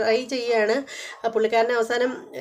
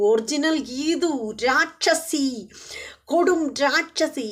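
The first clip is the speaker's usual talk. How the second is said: put-on slow drunk taunt; 4 semitones higher, much slower than usual. Drunk husband insults wife slowly.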